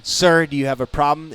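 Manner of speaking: the nice prick cop confronting him; stern courteous cop asking "Sir"; polite cop voice. Retold or imitated. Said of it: "the nice prick".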